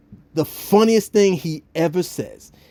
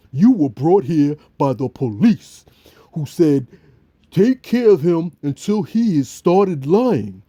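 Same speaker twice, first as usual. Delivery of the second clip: sullen Bill. Retold or imitated. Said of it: "Bill comes with this thing".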